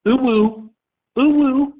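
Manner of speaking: high playful whoop. Real, not acted. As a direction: sing out a high woo. Vocal test whoops.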